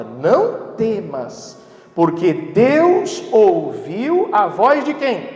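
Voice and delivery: slow, loud reading of the verse with the church; drawn-out reading, leading the congregation in unison; read aloud together. Shown as a demonstration. Pastor leading the church in reading the verse aloud, slow and loud. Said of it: "Lê comigo em voz alta".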